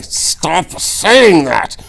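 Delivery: high, very slow nervous plea; rattled plea. A narrator's reading. The Count unnerved by Inigo, high and slow. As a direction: beg him to stop.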